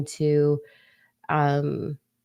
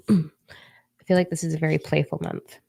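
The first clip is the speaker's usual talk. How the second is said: playful tone. Shown as a demonstration. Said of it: "see my energy shift".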